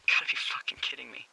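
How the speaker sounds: fast, whispered shock; stunned disbelief. Acted. Lookout hearing of a boy's death, stunned whispered disbelief. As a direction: whisper it in one quick, stunned rush.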